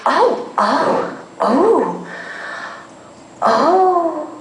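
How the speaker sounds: high wordless oohs; only sounds come out; pre-verbal moans. Retold or imitated. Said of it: "all I can get out is".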